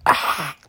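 "ah" rasped in the throat like gargling water; throaty, gargling "ah" for a German accent; gargled sound. Shown as a demonstration. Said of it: "you're gargling water".

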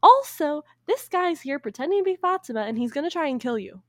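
outraged, high and loud mock telling-off; upset genie. Genie refusing Aladdin's request, angry mock outburst. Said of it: "the genie gets upset and leaves. He's mad".

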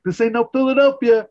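loud, high-pitched yell at the players; Kramer heckling. Retold or imitated. Imitating a fan yelling at the game, full-voiced heckle. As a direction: holler it like a rowdy ballgame fan. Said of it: "Kramer starts yelling at the game".

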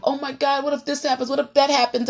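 a touch of rising worry, acted out; mild mock freak-out. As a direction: lightly imitate someone starting to panic. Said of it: "you just start freaking out".

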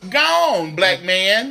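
high, loud outburst; excited exclamation. Real, not acted. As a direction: shout it up high in disbelief. Emphatic reaction to friend.

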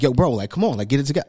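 acted mild agitation; agitated appeal. Man arguing with someone crying, mildly agitated. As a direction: urge them along, a touch exasperated. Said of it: "even when I'm agitated".

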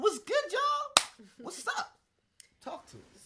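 put-on high, loud playful Caribbean accent. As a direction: goof around in a Caribbean accent. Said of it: "trying out your Caribbean accent".

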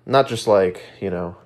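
blocked nose, a bit congested; stuffy nose. Real, not acted. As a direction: talk through a stuffy nose. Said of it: "Sorry if I sound a little stuffy".

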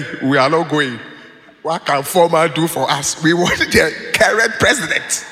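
firm imitation of a hot-headed friend; blunt refusal. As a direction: flatly turn the invitation down, forcefully. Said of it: "that's the way he said".

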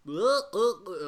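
loud, high mock grunts, "uh, uh, uh"; imitated accent sounds. Shown as a demonstration. Friend showing how the American accent slips, imitated accent sounds. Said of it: "like, that kind of".

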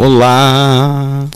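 mic test, peaking audio; clipping distorted mic. Real, not acted. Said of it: "Fala um pouquinho pra mim".

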